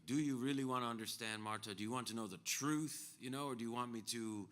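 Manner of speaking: forceful, confronting mock challenge; imitated aggro. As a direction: lean hard on the offered choice. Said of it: "He's being super aggro, right?".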